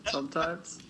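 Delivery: a quick hammed-up pirate line. Shown as a demonstration. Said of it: "Do you have a pirate voice?".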